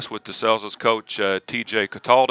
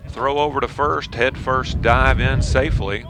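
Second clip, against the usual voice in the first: play-by-play. Acted. Live baseball play-by-play.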